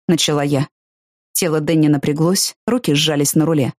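usual speaking voice

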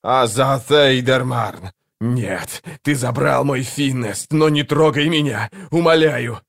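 slow, anguished plea, rising in pitch; possessed creature's terrified pleading; horrified cry. A narrator's reading. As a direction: beg in horror, drawing the words out. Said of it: "Одержимый вскрикнул от ужаса".

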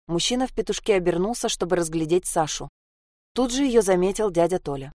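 ordinary delivery

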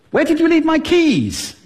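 very high-pitched, agitated question; worked-up, high-pitched demand; high-pitched arousal. Shown as a demonstration. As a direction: send the whole question way up high. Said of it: "do it just with pitch".

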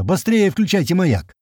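high, drawn-out urgent order; narrated shout with restrained volume; yelling. A narrator's reading. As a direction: urge them to act at once. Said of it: "тоже орёт".

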